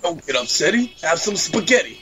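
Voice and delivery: mock Italian shopkeeper accent; Italian-American accent. Gamer pitching a spaghetti shop in a joke Italian accent. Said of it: "that accent".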